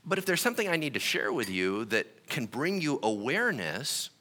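normal talking voice

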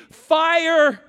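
put-on high shrieked toddler scream; screaming toddler tantrum. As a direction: shriek it like a two-year-old in a fit. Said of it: "he starts screaming".

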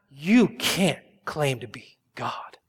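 whispered scorn. Pretend. Scribes muttering against Jesus.

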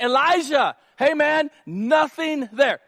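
high, loud, slowing on nothing there; mock exasperated servant; exasperated shout. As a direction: shout the bad news at your boss. Frank reporting in exasperation.

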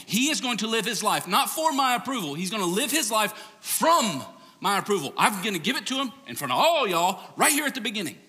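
the Father speaking over his son; booming God voice. Retold or imitated. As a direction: proclaim it from heaven. God's voice continued.

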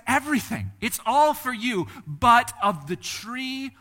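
high and loud, slowing hard on the tree; loud proclaiming God. Acted. Preacher voicing God's gift and warning, high and loud. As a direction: announce it like a generous king, then hold back.

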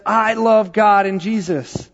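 lightly voiced excited little girl; mild mock excitement of a four-year-old; excited child. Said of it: "she was really excited".

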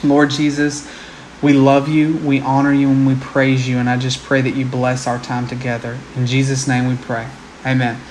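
earnest prayer voice. Acted. Closing prayer.

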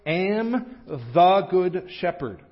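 slow, emphatic, drawn-out appeal; pleading. Retold or imitated. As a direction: plead it deliberately, weighting each word. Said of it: "the way Jesus is pleading for us".

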